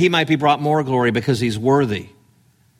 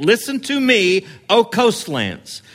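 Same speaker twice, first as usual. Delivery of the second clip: higher, ringing out to the nations; commanding proclamation; 6 semitones higher than usual. Shown as a demonstration. Preacher showing a voice that goes everywhere, ringing. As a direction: proclaim it as if across the seas. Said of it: "He's saying".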